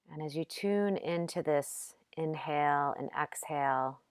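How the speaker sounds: gentle, unhurried meditation guidance with long pauses; calm yoga nidra instruction, lightly softened; guided meditation. Acted. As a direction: guide them softly into rest, leaving space between phrases.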